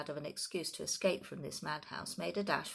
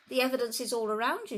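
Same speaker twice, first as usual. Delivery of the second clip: loud, fast, angry outburst; a gardener's furious shout; 6 semitones higher, 7 dB louder, faster than usual. A narrator's reading. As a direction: hurl the accusation at him. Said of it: "shouted Mister Hazel".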